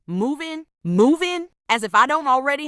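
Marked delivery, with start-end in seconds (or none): 0.1-0.7 quiet, flat, disbelieving repeat; first stunned echo. Real, not acted. Hearing his move-in idea, quietly stunned. Echoing boyfriend's sudden proposal. 0.8-1.5 higher and louder, can't believe it; incredulous outburst. Real, not acted. Reacting to boyfriend's move-in idea, loud disbelief. Echoing boyfriend's sudden proposal.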